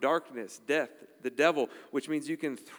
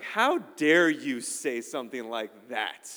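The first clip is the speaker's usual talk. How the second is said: mock offense; 5 dB louder, slower than usual. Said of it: "And I was like".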